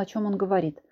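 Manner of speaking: plain reading voice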